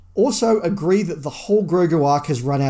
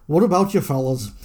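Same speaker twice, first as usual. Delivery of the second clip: "What about your fellas?" in a light Northern Irish lilt; a mild Northern Irish accent, half-hearted. Acted. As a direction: put on a gentle Northern Irish accent for the greeting. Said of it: "Can you do an accent?".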